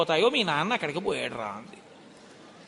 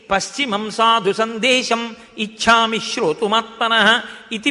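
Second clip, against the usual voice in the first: slow, louder chanted Sanskrit verse; shloka recitation; 6 dB louder than usual. Acted. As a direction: intone the shloka like a pravachanam. (శ్లోక పఠనం, నెమ్మదిగా గట్టిగా)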